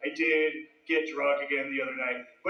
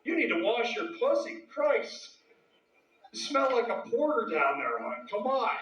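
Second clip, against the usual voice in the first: put-on nagging girlfriend; 7 semitones higher than usual. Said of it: "just getting bitched at".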